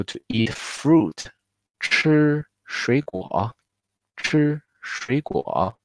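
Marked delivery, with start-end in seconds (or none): 1.8-5.7 吃水果 said slowly with 水 rising as a second tone; 吃水果 slowly, first third tone lifted to a rising second tone; slow tone drill. Shown as a demonstration. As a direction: stretch out 吃水果 and let 水 rise. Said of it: "the first third tone we will change to the second tone".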